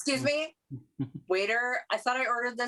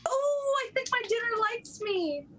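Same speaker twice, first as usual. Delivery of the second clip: crying voice; 13 semitones higher, faster than usual. Acted. Comic tearful line.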